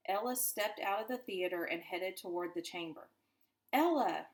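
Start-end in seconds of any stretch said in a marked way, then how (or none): 3.7-4.3 an urgent cry of the name, higher and louder; hushed scream. A narrator's reading. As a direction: call her back in a panic but keep it down. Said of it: "Richie screamed under his breath".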